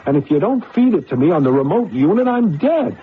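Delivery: desperate whispered urgency. Acted. Man begging his computer to send the answers. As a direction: voice jumps high on the last words.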